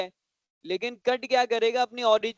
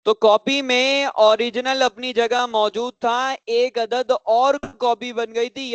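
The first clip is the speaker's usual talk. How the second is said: louder, dragged-out teacher voice, slowing down; mock slow answer; 6 dB louder than usual. Shown as a demonstration. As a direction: drawl it out the way the slow students answer. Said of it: "आपकी तरह मैं slow बोलूंगा". (छात्रों की नकल में धीमा, खींचकर)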